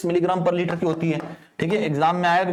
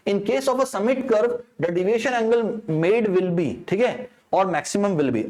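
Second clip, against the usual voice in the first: question read-out; much slower than usual. Acted. Reads exam question aloud.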